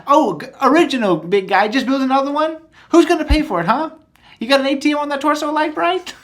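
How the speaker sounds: high, loud cartoon Emperor rant. Quoting the cartoon Emperor scolding Vader, high loud rant.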